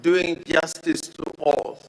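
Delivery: slow, deliberate "doing justice to all"; emphasis on justice. Shown as a demonstration. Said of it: "I emphasize the word".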